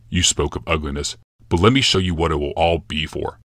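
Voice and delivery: a hint of a brooding emperor, calm and certain; grave Yalmoth. Yalmoth's lines.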